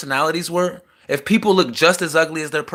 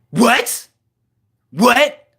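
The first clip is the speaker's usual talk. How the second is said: mock surprised what; 7 semitones higher, 5 dB louder than usual. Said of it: "She said it just like that".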